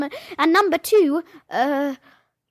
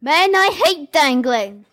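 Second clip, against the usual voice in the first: play line. Shown as a demonstration. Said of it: "Give me one of your lines".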